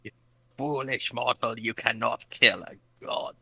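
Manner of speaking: slow, soft hammy deity; mock god voice. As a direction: intone it like a god.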